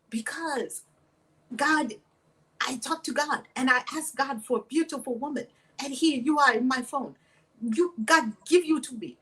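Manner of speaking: lightly mimicked Omani accent. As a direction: play the suitor with an Omani accent. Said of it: "He's saying all this in his accent from Oman".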